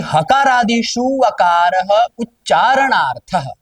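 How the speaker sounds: slow, measured recitation of the Sanskrit sutra; teacher reciting the sutra to students, slow and measured. Shown as a demonstration. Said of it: "अब आगे क्या बोले".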